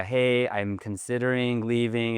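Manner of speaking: slow, mock-tentative suggestion; tentative announcement. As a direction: float it as a mere possibility. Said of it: "You can't make it like a".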